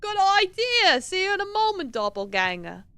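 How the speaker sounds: high, gleeful character voice; light up with high-pitched eagerness; delighted game character. Acted. Delighted that the offer is accepted, high excited voice.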